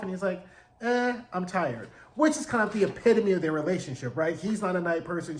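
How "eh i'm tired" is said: slow, dragged-out brush-off; mock weary refusal. Husband turns down his wife's offer, mock weary. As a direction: drag out a half-hearted no.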